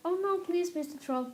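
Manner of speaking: high-pitched plea at the start, easing down; pleading little goat. A narrator's reading. Smallest goat begs the troll not to eat him, pleading. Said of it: "played the goat".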